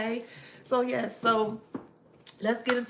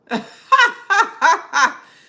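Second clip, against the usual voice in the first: loud laugh; 11 semitones higher, 16 dB louder than usual. Real, not acted. Laughing at chat comment.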